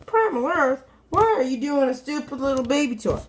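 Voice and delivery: questioning viewer. Acted. Viewer challenging the reviewer about the toy, mock complaint. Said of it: "you may be saying to yourself".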